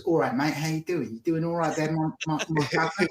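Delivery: imitated London accent, chummy greeting. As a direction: lightly put on a London accent. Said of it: "has a very good London accent".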